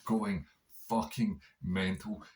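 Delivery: normal talking voice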